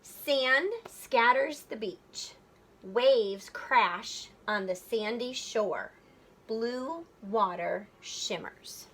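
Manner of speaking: slow, measured poem reading; unhurried recitation of a haiku. Shown as a demonstration. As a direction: read each line slowly, savoring it. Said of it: "So if I just read it".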